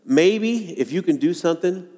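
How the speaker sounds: lightly voiced father losing hope; doubt and despair. Preacher voicing the boy's father to Jesus, mildly despairing. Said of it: "the doubt and despair in this dad's voice".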